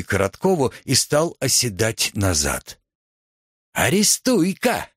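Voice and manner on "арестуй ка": high thin squeak of a command; squeaky cry. A narrator's reading. Korotkov squeaks at the fat man, high slow squeak. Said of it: "пискнул Коротков".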